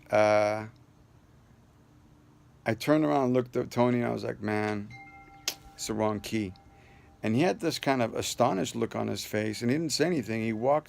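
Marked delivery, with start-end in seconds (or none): 4.4-6.5 deflated. Retold or imitated. Deflated after wrong key.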